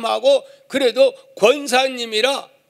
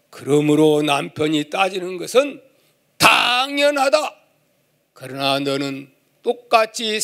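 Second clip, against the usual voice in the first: lightly lowered solemn God voice. Retold or imitated. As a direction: teach her calmly as God. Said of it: "하나님이 이렇게 말씀을 했다고". (하나님이 타이르듯 약간 낮고 엄숙하게)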